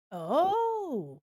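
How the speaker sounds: high delighted gasp of surprise; surprised oh. Real, not acted. Streamer gasps at her drawing, surprised. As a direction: gasp as the drawing suddenly works.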